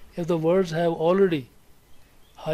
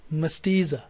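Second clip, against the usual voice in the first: "mestiza" with stress on the middle "ti"; primary stress demo. Shown as a demonstration. Teacher models the second word, stressing its middle syllable. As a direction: say "mestiza" deliberately, leaning on "ti". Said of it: "the primary stress".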